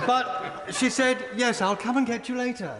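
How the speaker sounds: can barely get the story out for laughing; laughing while telling. Real, not acted. MP laughing through his story of a Number Ten visit. Retelling funny Thatcher anecdote, laughing.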